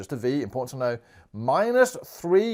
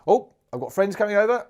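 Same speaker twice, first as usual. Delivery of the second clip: mock surprise; 7 semitones higher, 5 dB louder than usual. Shopper story, sudden idea.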